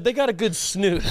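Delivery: quoting friend. Retold or imitated. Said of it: "He said".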